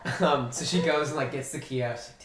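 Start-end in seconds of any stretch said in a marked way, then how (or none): 0.1-0.2 louder, higher frantic please please; frantic begging. Acted. Game master voicing Igan begging the cook to unlock, frantic and loud. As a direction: beg like a kid who can't wait.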